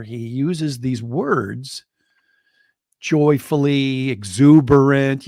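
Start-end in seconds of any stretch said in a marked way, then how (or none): 3.0-5.3 slow, swelling louder on each word; exuberant emphasis. Real, not acted. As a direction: savour each joyful word. Praising Barry's words.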